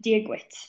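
"díoghuit" said as a clear Irish-language greeting. Shown as a demonstration. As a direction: model "díoghuit" as a native would say it. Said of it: "So that's how you would say hello in Irish".

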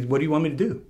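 put-on a touch of the doctor's Indian accent; Hindu doctor's accent. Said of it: "he was Hindu, and his, uh, accent".

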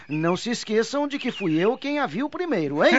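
talking through laughter; words bubbling with laughs; laughing. Acted. Chico teases brothers about the girl, laughing.

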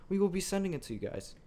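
lightly voiced smooth announcer; a hint of a radio announcer. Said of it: "sorry for my announcer voice that popped out".

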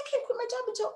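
high protest. Retold or imitated. Her protest quoted.

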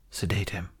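hushed whisper. A narrator's reading. Healer whispering to her Padawan, hushed order. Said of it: "Volucara whispered to Luna".

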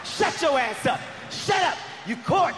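high-pitched mock scolding; angry tirade. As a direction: tear into him, pitch up, in an acted row. Acted tirade at the man.

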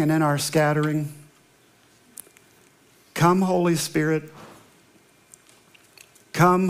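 measured, reverent pastor's prayer; a pastor opening worship in prayer, reverent. Acted. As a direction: lead the church in prayer, unhurried. Opening prayer before sermon.

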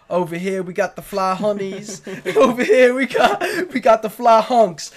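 weak attempt at a Boston accent; half-hearted Boston accent as a rapper; bad Boston accent. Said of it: "I can't do a Boston accent".

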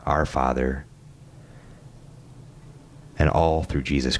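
measured prayer with long reverent pauses; closing prayer. Real, not acted. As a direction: lead them in prayer, leaving room for silence.

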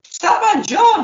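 high, slow, loud exclamation of the name; suddenly remembering, drawn out and loud; excited realisation. Real, not acted. Host remembers the missing caller, excited.

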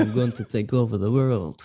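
a hint of a grand movie villain, through a laugh; lightly voiced world-domination boast, half laughing; Bond-style villain. Joking with podcast mates about Musk, a mock villain boast. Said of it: "James Bond style villain".

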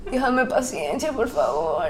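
low, slow, very soft; muttered plea. Real, not acted. Asking God for patience with a friend, muttered. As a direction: sigh it under your breath as a prayer. Muttered prayer before the game.

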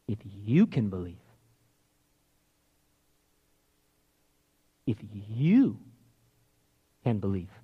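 low, soft, measured reply; without attitude. Retold or imitated. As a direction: quietly hand it back, with long pauses. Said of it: "he's not speaking with, like, an attitude".

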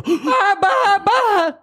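high, straining laughing stammer on barra; mock stutterer's last words. Joking to friends about a dead father's last word, mock stutter. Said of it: "Ele era gago".

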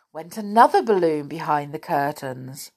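ordinary delivery, nothing marked

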